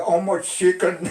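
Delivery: quick, high broken English; American asking. Retold or imitated. American soldier asking father about chickens, quick high English. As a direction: toss off the question like a GI. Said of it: "Il y en a un qui dit à mon père".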